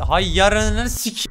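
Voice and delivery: slow curse. Real, not acted. Cursing at game text.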